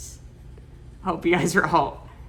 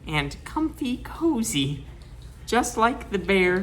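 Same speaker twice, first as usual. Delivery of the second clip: cozy sing-song; 4 semitones higher than usual. Acted. Wrapped in blankets, cozy.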